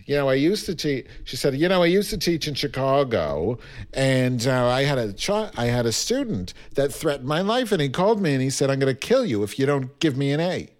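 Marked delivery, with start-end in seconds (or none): 0.0-1.0 imitated New York teacher; New York accent. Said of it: "say stuff with this accent". 1.5-10.7 New York teacher telling her story; New York accent. Retold or imitated. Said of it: "say stuff with this accent".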